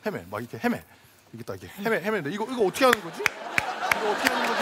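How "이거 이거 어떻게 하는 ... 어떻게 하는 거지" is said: higher-pitched, mildly flustered muttering to oneself. Acted. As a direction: act lost and unsure what to do. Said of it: "당황해가지고". (살짝 당황해서 헤매는 척)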